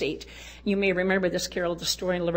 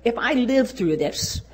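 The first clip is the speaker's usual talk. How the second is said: mock prayer; 7 dB louder than usual. Retold prayer under treatment.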